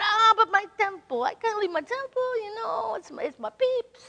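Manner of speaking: put-on an old man sighing over his temple; light mock old man protest; imitating Hank. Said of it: "I'm gonna try to imitate Hank".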